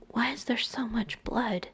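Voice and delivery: breathless whispered horror; barely able to ask it; hushed shock over the blood; horrified whisper. Acted. Panicked at friend's body.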